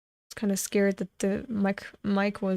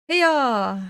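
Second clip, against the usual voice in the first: a sharp high call to spur the horse on; horse-driving yell; 4 semitones higher, 4 dB louder than usual. Acted. Rider spurring his horse with a loud yell. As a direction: yell it to get the horse running.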